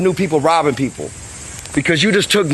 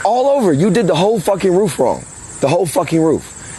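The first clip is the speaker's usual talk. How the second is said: heated scolding; 4 semitones higher than usual. Real, not acted. Scolding the other roofer.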